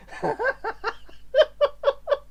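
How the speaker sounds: high wheezing laughter; high-pitched giggling fit; helpless laugh. Real, not acted. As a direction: crack up at your own joke. Cracks up at own bit.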